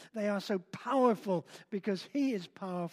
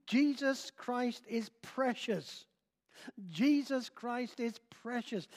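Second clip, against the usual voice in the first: put-on old preacher repeating; 3 semitones higher than usual. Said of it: "he kept repeating the phrase".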